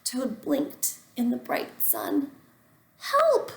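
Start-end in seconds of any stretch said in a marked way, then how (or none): 3.0-3.5 high, loud hammed-up yelp; mock cry for help. A narrator's reading. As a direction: squeal like a dazzled toad. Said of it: "said Toad".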